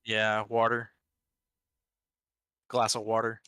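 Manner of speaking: water with a hard R, wodder; DC pronunciation. Shown as a demonstration. Demonstrating his accent to friends, water with an R. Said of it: "I add R's where they don't belong".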